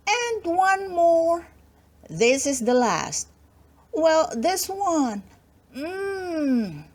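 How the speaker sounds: put-on little girl can't stop eating strawberries, slow and delighted; greedy little girl. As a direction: linger over every berry like a greedy child.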